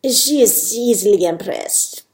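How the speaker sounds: lightly put-on Spanish accent; amateur Spanish accent. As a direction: remark with a touch of Spanish accent. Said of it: "Sophia's got a bit of a Spanish accent".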